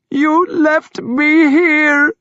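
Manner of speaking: very slow, high, loud wail. A narrator's reading. Thyra wailing at her brother. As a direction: draw it out in grief. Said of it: "Thyra wailed".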